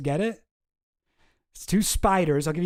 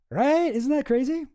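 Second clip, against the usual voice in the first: amazed; 9 semitones higher than usual. Real, not acted. Marvelling at Bush's prophecy.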